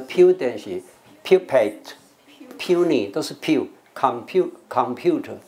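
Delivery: slow list, "pu" said "pyoo" in "pudence", "pupate", "puny", "computer"; "pyoo" sound. Shown as a demonstration. Teacher listing words that share "pyoo", slowly. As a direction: draw out the "pyoo" in each word. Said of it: "那不是打个pu啊".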